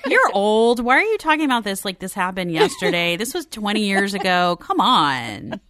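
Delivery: scoffing retort. Retold or imitated. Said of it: "When I saw him, I was like".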